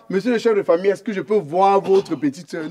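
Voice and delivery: demande polie imitée, lente; mock polite request. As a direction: singe le prétendant bien élevé, lentement. (imitation polie et lente d'une demande)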